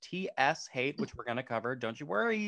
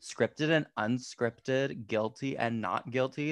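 put-on silly teen voice; 3 semitones higher than usual. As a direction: play a goofy teenager host. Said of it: "that's my teenager impression, or actually, like, silly, like, millennial impression".

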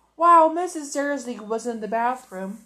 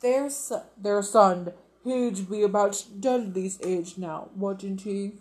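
forced casual; 4 semitones lower than usual. Acted. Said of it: "as casually as he could".

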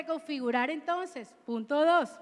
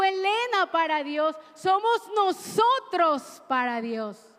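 loud, ringing call to each person by name; preaching at full force; 5 dB louder than usual. Real, not acted. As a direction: proclaim it over the church, raising the voice. Preacher calls out names to congregation.

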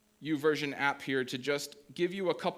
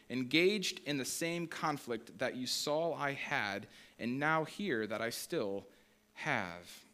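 measured, formal Bible reading; scripture reading; 3 dB quieter than usual. Acted. Pastor reading Philippians to the congregation, measured and formal. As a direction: read the passage with steady weight. Reads scripture passage aloud.

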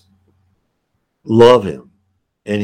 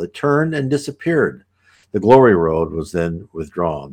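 put-on measured reading of an old visionary text; unhurried scripture-like reading; reading aloud; 2 semitones lower than usual. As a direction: read it as a solemn, flowing passage. Reads passage aloud.

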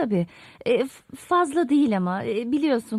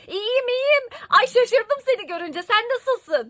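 cheerful; 8 semitones higher than usual. Acted. Overly cheerful greeting to ex.

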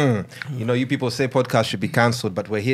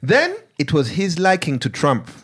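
put-on Ugandan accent. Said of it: "I'm gonna read it in Ugandan accent".

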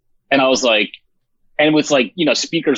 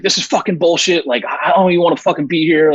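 imitating a mild, higher-pitched angry rant; mock freak-out; 6 semitones higher than usual. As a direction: retell him losing it at you, half-hammed. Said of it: "just freaking out on me".

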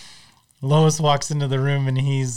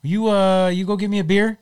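quoting Peter; 7 semitones higher, 4 dB louder than usual. Retold or imitated. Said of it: "is like".

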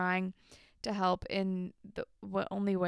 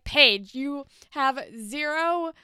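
louder lecturing scold; pretend telling-off; 2 semitones higher, 6 dB louder than usual. Telling Paige off in an imagined retort, louder scolding. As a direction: put her firmly in her place.

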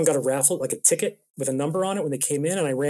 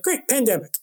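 higher, mock-cheery sarcasm; pitched-up ironic groan of a line; sarcastic great; 9 semitones higher than usual. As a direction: toss it off with dry irony. Sarcastic reaction to pandemic.

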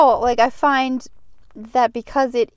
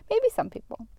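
unvoiced, much softer and fast; whispering; 8 semitones higher, 6 dB quieter than usual. Real, not acted. Friend whispering a joke about infections. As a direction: whisper it quickly.

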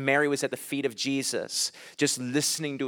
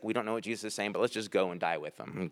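mock Thomas; 6 semitones lower, 10 dB quieter, faster than usual. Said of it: "He's like".

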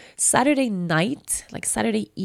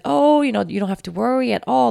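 hotline voice; 5 semitones higher, 5 dB louder than usual. Retold or imitated. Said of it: "And they said".

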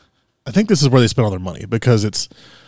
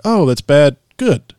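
high, rising "Good" of delight; delighted approval; 3 semitones higher, 4 dB louder, slower than usual. Retold or imitated. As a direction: turn "bad" into a compliment, higher. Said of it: "everybody's like".

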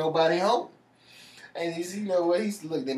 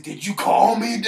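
slow, loud ghostly voice; spooky voice; 6 semitones higher, 10 dB louder, slower than usual. Retold or imitated. Prankster grabbing the sleeping cousin's leg, slow ghostly menace. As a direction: growl it slow like the monster under the bed. Crawling under bed to scare cousin.

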